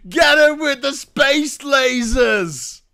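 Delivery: shouted slow and high; retold scream. Heckler screaming at Marjorie Taylor Greene, mock shout. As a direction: yell it like a heckler chasing her.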